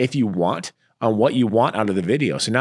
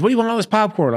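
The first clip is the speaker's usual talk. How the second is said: lightly imitating a sweet Southern Belle accent, high and bright; 11 semitones higher, faster than usual. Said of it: "she's Southern Belle, she got that accent".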